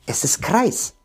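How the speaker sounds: whisper. Real, not acted. Drops to whisper mid-explanation.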